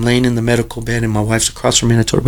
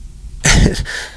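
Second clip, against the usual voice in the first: breathy laugh. Real, not acted. Breathy laugh after the retold message.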